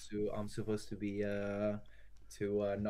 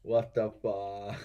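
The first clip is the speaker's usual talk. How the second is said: stunned disbelief; 5 dB louder, much slower than usual. Real, not acted. Streamer sees an error.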